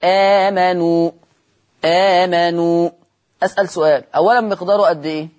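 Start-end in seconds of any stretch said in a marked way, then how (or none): 0.0-2.9 آمنوا with the opening vowel drawn out long and slow; long madd of badal. Shown as a demonstration. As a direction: stretch the long a of آمنوا in slow Quranic recitation. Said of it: "مد البدل".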